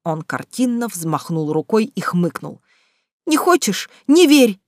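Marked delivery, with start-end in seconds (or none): 3.2-4.6 higher, angry shouted retort. A narrator's reading. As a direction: fling it back at him. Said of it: "крикнула я".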